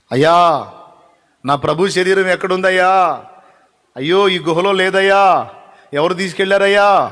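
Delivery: Mary's mild acted lament; acted plaintive cry. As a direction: call out pleadingly, stretching the last syllables. Acts Mary searching for Lord's body.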